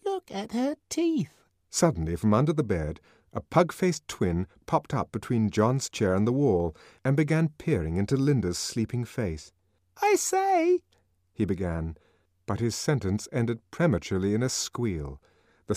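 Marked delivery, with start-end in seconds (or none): 0.1-1.3 put-on high child voice; a lightly voiced nosy kid; child comment. A narrator's reading. Twin staring at Linda, high childish voice. 10.0-10.8 put-on high child voice; a kid about to pipe up; twin child. A narrator's reading. Pug-faced twin peering at Linda, high voice.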